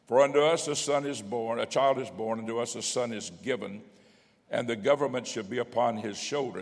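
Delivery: projected reading from the pulpit; scripture reading. Acted. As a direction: read the verse out to the congregation.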